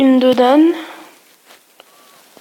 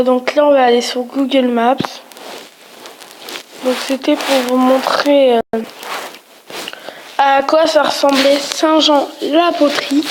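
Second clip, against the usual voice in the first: with braces. Real, not acted. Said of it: "désolé si je parle mal, je viens de mettre mon appareil dentaire".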